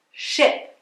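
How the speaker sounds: she with a short i; short muffled i. Shown as a demonstration. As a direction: keep the i clipped. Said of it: "som do I abafado". (i curto)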